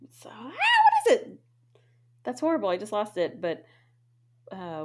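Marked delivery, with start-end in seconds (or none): 0.1-1.4 unvoiced whisper, searching memory. Real, not acted. Trying to remember the song title, a whisper. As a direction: whisper it to yourself.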